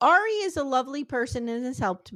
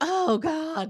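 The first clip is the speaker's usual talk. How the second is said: mock hungover groaning, higher pitch; 5 semitones higher than usual. Retelling a scene, imitating a hungover person. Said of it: "Stacy's hungover, and she's like".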